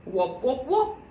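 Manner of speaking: muffled jug voice; hollow jug voice. A narrator's reading. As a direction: boom it through a tube. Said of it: "His voice sounded like that".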